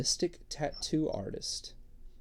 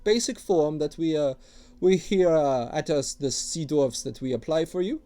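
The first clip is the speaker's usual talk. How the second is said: higher, louder wheedling dwarf voice; gruff dwarf tattooist; 6 semitones higher, 6 dB louder than usual. Acted. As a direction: sell your wares like an eager old dwarf. Dwarf keeps talking.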